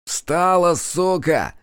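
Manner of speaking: rough angry order; harsh order. A narrator's reading. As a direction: yank her up with a yell. Policeman orders girl up.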